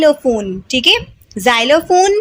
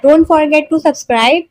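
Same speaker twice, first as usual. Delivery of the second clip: slow outro; much slower than usual. Real, not acted. Outro request to viewers.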